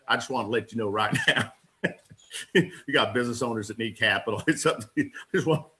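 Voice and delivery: half-serious mimic of the boss, breaking into laughs; Wade Cordell impression. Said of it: "I could do Wade Cordell for you".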